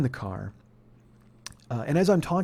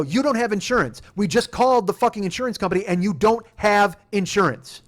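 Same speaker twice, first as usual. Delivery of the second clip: moderately raised, insistent accusation; retold yell; 3 semitones higher, 4 dB louder than usual. Telling the driver what the insurance company said, yelling. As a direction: hammer the accusation home. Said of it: "not going to do anything except yell".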